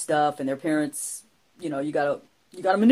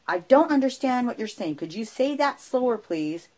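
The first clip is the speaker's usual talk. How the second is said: mom's voice; 6 semitones higher than usual. Retold or imitated. Mom asking again.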